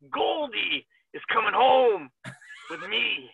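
slow, drawn-out wrestler voice, lightly put on; Tommaso Ciampa. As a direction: stretch the words like a wrestler's promo. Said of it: "you get to do Tommaso".

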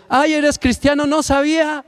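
high-pitched, delighted discovery; acted surprised coworker. Coworker learning over lunch that you are Christian, mock surprise. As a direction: exclaim it high, like finding a fellow believer by chance. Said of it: "te dice".

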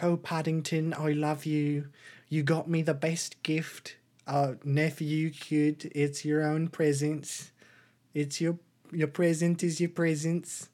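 lightly acted doting aunt; lightly voiced aunt. Voices the aunt greeting her nephew.

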